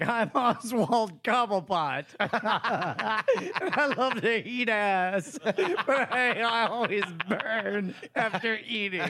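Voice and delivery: slow, laughing mock character voice; Oswald Cobblepot. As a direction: introduce yourself as a silly movie character. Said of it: "he walks in and he's like".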